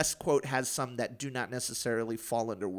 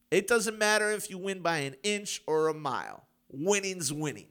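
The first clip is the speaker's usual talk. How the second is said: dramatic monologue; 4 semitones higher than usual. Pretend. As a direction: deliver it like a hammy movie climax. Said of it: "That's my dramatic monologue".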